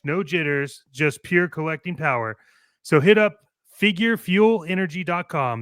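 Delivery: promo announcer voice with call to action; ad read. Acted. Host wraps the fake sponsor spot, salesy announcer. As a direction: pitch the website and code.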